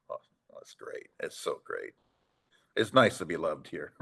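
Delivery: dry French-Canadian-free sarcasm, dropped to a near-whisper; sarcastic. Retold or imitated. Sarcastic reply after booing question.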